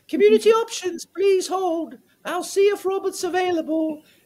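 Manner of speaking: high put-on British receptionist voice. Retelling how he answered the phone while working alone, fake british accent. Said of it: "I would answer it with a fake British accent saying".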